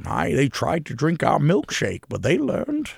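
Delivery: lightly voiced Daniel Day-Lewis; a hint of an old-timey movie villain drawl; Daniel Day-Lewis impression. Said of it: "that was, like, my Daniel Day-Lewis".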